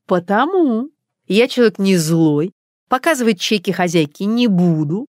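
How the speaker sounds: smug threat, rising high at the end; gloating young woman. Acted. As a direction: lord it over the frightened cook. Ilona threatens the cook. (Илона угрожает кухарке, самодовольно и насмешливо)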